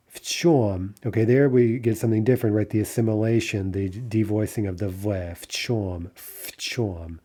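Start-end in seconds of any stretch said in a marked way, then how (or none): 5.4-7.2 в чём said as "фчём"; devoiced v. Shown as a demonstration. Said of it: "sounds more like an F".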